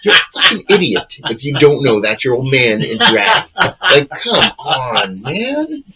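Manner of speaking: a hint of real anger ranting at the dim viewers; mock rant. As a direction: tell off the audience in mock fury. Mock rant at oblivious moviegoers.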